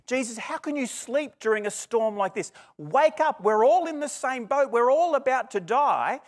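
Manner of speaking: high, loud panicked cry to a sleeping man; panicked shout. Retold or imitated. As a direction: yell at him to wake up, terrified. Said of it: "What they're more interested in is".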